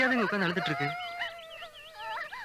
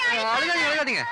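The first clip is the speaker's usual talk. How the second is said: urgent plea; 7 semitones higher, 4 dB louder than usual. Real, not acted. Man soothes the crying girls.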